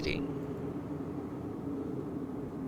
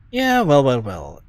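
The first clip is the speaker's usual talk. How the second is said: mock villain; slower than usual. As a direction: play the smug villain. Player mock-villain well well well.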